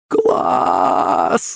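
drawn-out cheer without full voice; excited yell. A narrator's reading. Girl soaring on a dragon, excited yell. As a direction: stretch it out as a thrilled mock yell. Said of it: "закричала Юленька".

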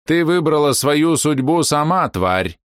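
high, loud, slow condemnation; furious verdict. Acted. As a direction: pronounce her doom in rage. Old woman condemns the demon.

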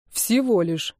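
a mild snort, flat and falling. A narrator's reading. Denis snorts back at Maria, mildly mocking. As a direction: huff the words back dryly. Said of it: "фыркнул он".

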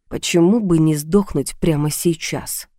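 ordinary delivery

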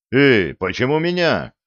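a touch of panic; panicked. Acted. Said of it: "запаниковал Виталик".

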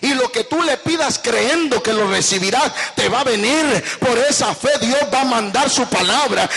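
predicar con fuerza y convicción; prédica enérgica. Acted. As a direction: frases de púlpito, firmes y sostenidas. (predicación enérgica)

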